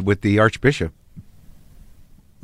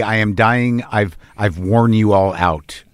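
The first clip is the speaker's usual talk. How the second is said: mock dying words; 6 semitones lower, much slower than usual. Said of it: "Your last words are gonna be".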